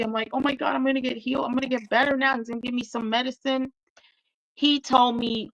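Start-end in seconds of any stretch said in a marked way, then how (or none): 0.3-3.7 quick, higher-pitched retelling of hopeful excitement; retold happy relief. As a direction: rattle off your past hopes eagerly. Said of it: "So I was so happy".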